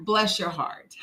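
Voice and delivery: soft, sugary Southern put-down; syrupy Southern sympathy with a sting; Southern bless your heart. Shown as a demonstration. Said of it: "we have a phrase for that down here in the South".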